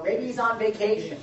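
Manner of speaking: high, teasing jab at the prophets; playful mock of a useless god; mocking taunt. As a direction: taunt them, lightly sarcastic. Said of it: "Elijah starts taunting them".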